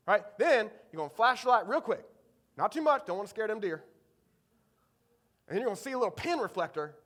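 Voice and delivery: imitated country hunter, Eastern North Carolina accent; thick Eastern North Carolina accent. Dad's friend explains the flashlight routine, Eastern North Carolina accent. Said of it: "he's got a thick Eastern North Carolina accent".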